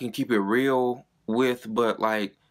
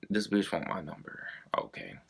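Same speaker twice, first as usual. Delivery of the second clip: hushed, unvoiced, much softer; whispered aside; 4 semitones lower, 9 dB quieter than usual. To herself about the nosy friend, in a whisper. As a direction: whisper it under your breath in disbelief.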